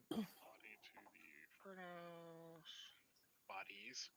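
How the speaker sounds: soft, slow note-taking voice; talking to oneself. Real, not acted. Game master noting down the plan, talking quietly to self. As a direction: say it under your breath, drawn out.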